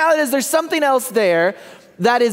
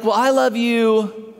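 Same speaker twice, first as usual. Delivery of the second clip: one-upping; slower than usual. Retold or imitated. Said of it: "not to be outdone".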